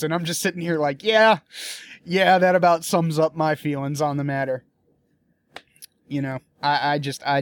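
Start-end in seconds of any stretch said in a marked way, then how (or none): 1.0-4.6 wry agreement. Retold or imitated. His reaction to the poster.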